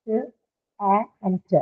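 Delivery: the sounds of "cat" one by one: k, a, t; separate sounds. Shown as a demonstration. Teacher splitting the word cat for students, sound by sound. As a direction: isolate each sound in "t, a, and t", with pauses. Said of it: "the sound that you hear in the word cat".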